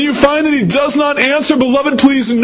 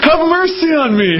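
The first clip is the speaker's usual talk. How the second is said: higher, urgent plea for mercy; a mother's raised cry for mercy; pleading mother; 6 semitones higher than usual. Acted. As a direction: beg for mercy, voice lifted. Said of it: "so she kept on saying it".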